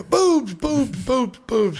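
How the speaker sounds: high, bursting "Boobs" that falls away; eager blurting. Acted. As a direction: blurt it out like he can't help it. Joke patient blurts answer.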